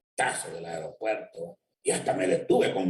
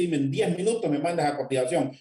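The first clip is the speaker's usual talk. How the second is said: put-on desperate young woman; 8 semitones higher than usual. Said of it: "aquella muchacha desesperada me dice".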